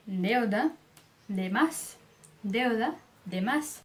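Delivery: "Deuda, demais" with a light dental d; touch the tongue softly to the teeth for each d. Shown as a demonstration. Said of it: "não tem essa pronúncia".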